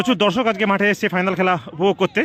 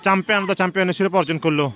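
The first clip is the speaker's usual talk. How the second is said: excited commentary. Real, not acted. Winning goal in final.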